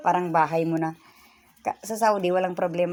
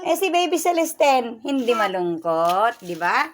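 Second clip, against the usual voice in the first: higher, louder, slow cooing; 5 semitones higher, 7 dB louder, slower than usual. Real, not acted. Grandmother coos over her grandkids, slow and high. Baby talk about grandkids.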